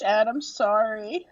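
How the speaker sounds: slow, mouth burning from peppers; mouth full of hot food. Real, not acted. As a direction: talk through a burning mouth. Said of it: "My mouth is still burning".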